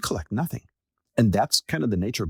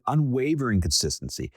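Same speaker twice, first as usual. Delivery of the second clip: "unwavering" leaned on and set apart; stressed word. Shown as a demonstration. To listeners, stressing the key word firmly. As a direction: give "unwavering" extra weight before "consistency". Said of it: "I want to stress that word".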